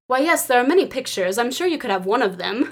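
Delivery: mock-astonished reply; lightly feigned surprise; false astonishment. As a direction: play mildly astonished, as if indulging a fan. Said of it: "like, false astonishment".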